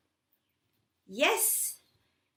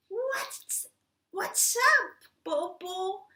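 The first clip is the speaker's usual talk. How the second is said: higher cat voice; 6 semitones higher, slower than usual. Acted. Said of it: "said Meow".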